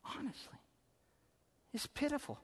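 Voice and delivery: "honestly" breathed out in a whisper. Real, not acted. Preacher appalled by Jonah, whispered aside. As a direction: drop to a disgusted whisper on "honestly".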